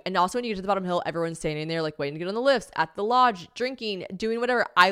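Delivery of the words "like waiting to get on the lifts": ordinary talk, nothing marked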